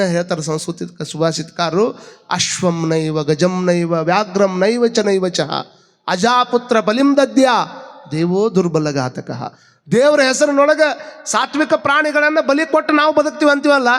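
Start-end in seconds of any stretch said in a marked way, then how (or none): 2.3-9.5 slow, measured shloka recital; Sanskrit verse recitation. Acted. Preacher quoting a Sanskrit verse on sacrifice, slow recitation. 9.9-13.9 high-pitched, driving sermon delivery; impassioned preaching. Real, not acted. Preacher exhorting listeners on Basavanna's teaching, impassioned and high.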